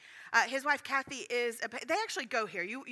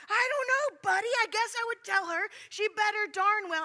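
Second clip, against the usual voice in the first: high, loud exasperated yell; very loud outburst; 9 semitones higher, 5 dB louder than usual. Retold or imitated. Retelling blurted answer to Buddy before the Kroger crowd, very loud. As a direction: blurt it out at full volume. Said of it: "I respond very loudly".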